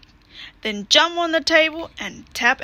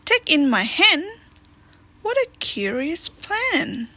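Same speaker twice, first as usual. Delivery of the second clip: put-on old lady; 6 semitones higher than usual. Old lady voiced in a picture book.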